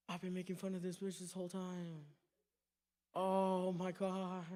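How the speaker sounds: soft, horrified dawning; hushed realization. Acted. Joker realizing he mocked her all along, hushed. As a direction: say it under your voice as it sinks in.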